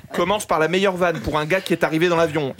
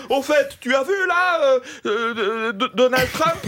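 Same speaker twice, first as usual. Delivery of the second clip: high, projected conversational voice; public small talk; 7 semitones higher than usual. Retold or imitated. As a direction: act out chatting for everyone to hear, stumbling for a topic. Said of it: "on a des conversations publiques, comme".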